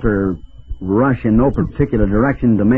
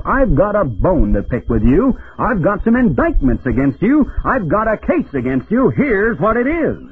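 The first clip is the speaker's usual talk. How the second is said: preacher voicing God's indictment, rising higher; God confronting the nations; 5 semitones higher than usual. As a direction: lay out the charge with mounting pitch. Preacher voices God's challenge to nations.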